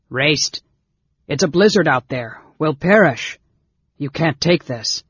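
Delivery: loud, urgent protest; alarmed shouting. A narrator's reading. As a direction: call out in alarm to stop someone. Alarmed protest echoing down hall.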